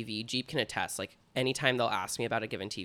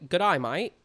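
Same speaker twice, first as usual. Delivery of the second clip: louder, higher stab at an Australian accent; attempted Australian accent; 5 semitones higher, 6 dB louder than usual. Shown as a demonstration. Defending the attempt to the co-host, put-on Australian accent. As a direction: show off your shaky grasp of an Australian accent. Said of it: "How else would you say".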